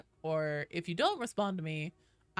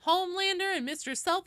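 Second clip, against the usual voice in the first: put-on high Valley Girl voice rising on Homelander; Valley Girl call ending up like a question; Valley Girl uptalk; 11 semitones higher, 4 dB louder than usual. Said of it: "sometimes I try to say everything like it's a question".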